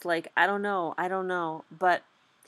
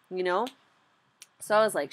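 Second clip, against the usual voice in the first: normal talking voice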